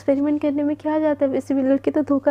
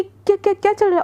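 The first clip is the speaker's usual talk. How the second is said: angry demand; 6 semitones higher, faster than usual. Acted. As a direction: stammer the question in rising anger. Jealous Priyanka confronts them.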